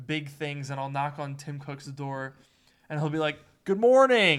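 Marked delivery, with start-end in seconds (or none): 3.7-4.4 loud, high-pitched, called out. Imitating Tim Cook greeting a visitor at his door: Tim Cook impression. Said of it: "Pretty good impression".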